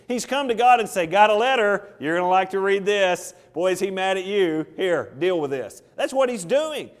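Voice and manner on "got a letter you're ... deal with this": offhand. Pretend. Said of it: "that's really the attitude he has here".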